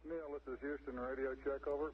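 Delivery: crackly military radio. Real, not acted. Houston radio check to the astronauts.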